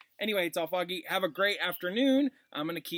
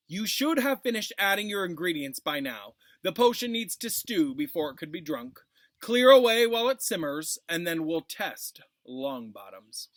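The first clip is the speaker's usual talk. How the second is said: louder, calling across the classroom, peaking loud on the order to clear away; calling out to the class; 7 dB louder than usual. Acted. Snape calling his instructions across the dungeon classroom, loud and commanding. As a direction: call out the instructions to the whole room. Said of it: "Snape called".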